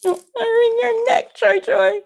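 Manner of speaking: high, loud teasing through laughter; laughing tease. Real, not acted. Mother laughing as she teases her peeking son. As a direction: tease him while cracking up.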